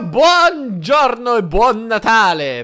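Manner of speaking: high, loud, slow sing-song hello; drawn-out put-on greeting mimicking his friend; mock greeting voice. Greeting his friend in a high, stretched put-on voice.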